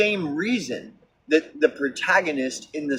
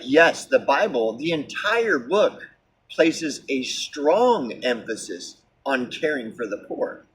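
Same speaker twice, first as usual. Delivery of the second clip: mock AI answer. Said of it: "the A I is, like, immediately like".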